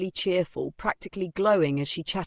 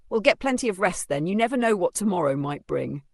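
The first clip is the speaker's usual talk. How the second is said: knowing, ominous tone; 3 semitones higher than usual. Acted. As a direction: sound kind but mean harm. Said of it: "with that particular tone, that knowing look".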